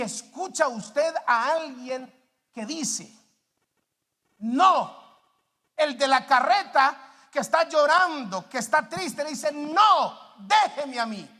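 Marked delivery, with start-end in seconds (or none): 4.4-5.0 one loud, drawn-out no; emphatic refusal. Acted. Cart puller to the strong helper, emphatic refusal. 9.5-11.3 loud, stubborn push-away; emphatic refusal. Acted. Cart puller to the one offering rest, emphatic refusal.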